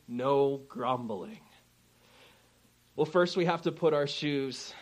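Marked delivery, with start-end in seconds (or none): 0.1-1.4 slow, stressed "No grumbling". Shown as a demonstration. Pastor stressing the scripture's no, slowly. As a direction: lean hard and slow on "No". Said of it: "why did they say".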